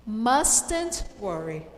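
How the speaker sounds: "mustn't" stressed and slowed. Shown as a demonstration. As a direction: lean on "mustn't", slowly. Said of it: "I want to emphasize that worry is not".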